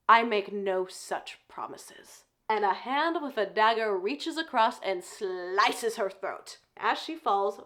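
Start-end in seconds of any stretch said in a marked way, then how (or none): 0.1-2.2 low menacing voice. Retold or imitated. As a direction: deliver it slowly with lightly acted menace. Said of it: "a low, menacing voice behind her".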